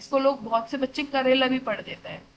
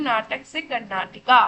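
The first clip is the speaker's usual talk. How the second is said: slow mnemonic; 4 dB louder, slower than usual. Shown as a demonstration. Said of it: "क्या बोल रही हूँ".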